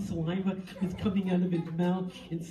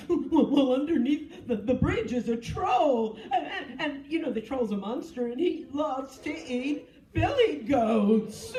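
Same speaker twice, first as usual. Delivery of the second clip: higher, laughing, slow storyteller goat; laughing middle goat; 5 semitones higher, 5 dB louder, slower than usual. Acted. Middle goat warns the others, laughing and higher. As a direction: giggle through the warning about the troll.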